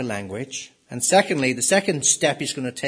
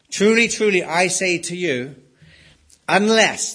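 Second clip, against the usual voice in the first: emphatic declaration; 3 semitones higher, 4 dB louder than usual. Acted. Jesus' declaration quoted with authority.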